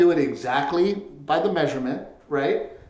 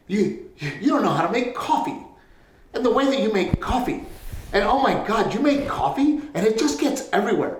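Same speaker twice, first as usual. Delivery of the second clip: mock nagging wife; 6 semitones higher than usual. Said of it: "She's fucking bitching at me".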